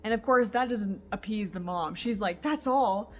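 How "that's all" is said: a touch of a frantic, upset mother; mock frantic mom. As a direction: play the mom losing it, lightly. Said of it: "she's just going bonkers here".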